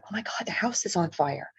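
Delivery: breathless whispered panic; frightened whisper. Retold or imitated. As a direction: whisper it in sudden fear. Sees smoke, frightened thought.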